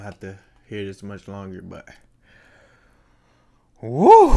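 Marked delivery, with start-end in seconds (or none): 3.8-4.4 high, loud whoop; loud cheer. Real, not acted. Cheering after a big sip.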